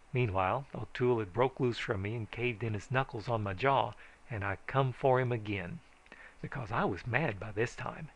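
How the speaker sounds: usual speaking voice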